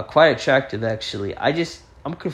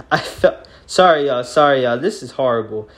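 stuttering; 7 dB louder than usual. Real, not acted. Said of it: "I know I'm stuttering a lot".

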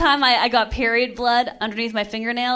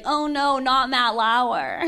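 Boston mom; much slower than usual. Retold or imitated. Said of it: "she's from Boston".

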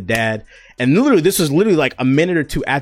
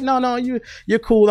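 mock waitress voice; 3 dB louder than usual. Voicing the waitress's reply.

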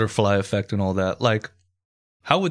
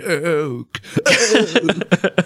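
OAK pitched high and loud; exaggerated oak; 8 semitones higher, 3 dB louder than usual. Host playing with the wood's name, exaggerated high OAK. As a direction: draw out OAK in a hammed-up high voice. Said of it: "it's gonna have me saying".

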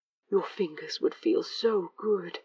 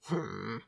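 low, soft grumbling harrumph; a sulky low grunt; 7 semitones lower, 6 dB quieter than usual. A narrator's reading. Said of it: "Crowley harumphed".

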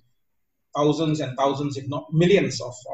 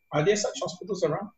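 sarcastic; 3 semitones higher, 4 dB quieter than usual. Real, not acted. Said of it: "I'm just being sarcastic".

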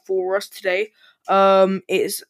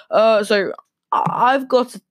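higher, bright announcer read; presenter mode; 3 semitones higher than usual. Acted. Podcast host switches into presenter mode for listeners. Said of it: "let's go into presenter mode".

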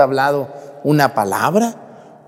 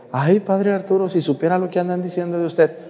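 higher, fast eager gossip voice; mock the eager busybody, higher and quick; gossiping lady; 4 semitones higher, faster than usual. A lady rushes to tell padre Arturo gossip, higher. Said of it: "una señora así me llegó y me dijo".

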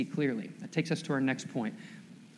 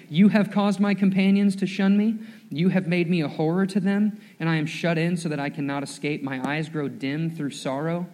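rising, louder solemn psalm reading; scripture reading; 4 dB louder than usual. Acted. Pastor reading the psalm aloud to his church, solemn. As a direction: read it like a lament building.

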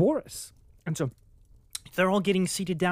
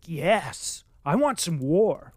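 fired up; 5 dB louder, slower than usual. Retold or imitated. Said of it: "I was getting fired up too".

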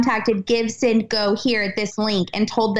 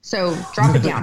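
producer's voice, pitched lower; mock coach telling her to go lower; dropped low; 6 semitones lower than usual. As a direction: push the voice down low. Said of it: "I need you down here".

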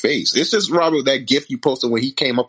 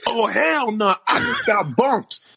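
much higher, whining outrage; whiny complaint; 10 semitones higher, slower than usual. Retold or imitated. Retelling Crying Time Robbie's complaint in a high whine. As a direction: pitch it way up like a sore loser. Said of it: "Crying Time Robbie said".

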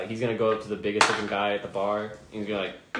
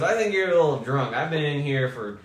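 Minotaur voice; 4 semitones higher, 5 dB louder than usual. Acted. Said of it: "he goes".

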